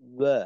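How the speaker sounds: ওয়া again with lips rounded and slightly open; true waw. Shown as a demonstration. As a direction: repeat the right ওয়া. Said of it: "বা হয় না".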